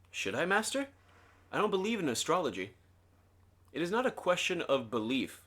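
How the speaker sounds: measured audiobook reading with light dialogue; story narration. A narrator's reading. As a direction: read the book aloud with deliberate phrasing. Reads the book aloud.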